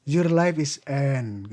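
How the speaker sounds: very slow, drawn-out pronouncement of doom; echoing ominous voice. Retold or imitated. Mysterious voice announcing the dreamer's death, slowly, as if echoing. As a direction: mimic a booming echo, stretching each word. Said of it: "Kayak menggema-gema gitu suaranya".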